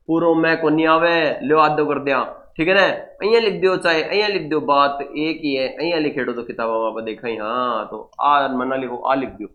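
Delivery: lightly voiced student, low and quiet dialect grumbling; imitating a student. Student telling sir where to write it, lightly imitated in a low voice. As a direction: play a student's casual aside, softly in dialect. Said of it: "आप बोलेंगे, sir".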